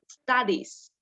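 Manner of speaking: "studies" said with a silent E; pronunciation demo. Shown as a demonstration. Teacher shows class how studies sounds, E left silent in "studies". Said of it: "but the pronunciation is".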